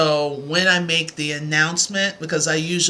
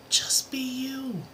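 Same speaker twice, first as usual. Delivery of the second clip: soft whisper; 7 semitones higher, 7 dB quieter, slower than usual. Real, not acted. Encouraging viewers to be themselves.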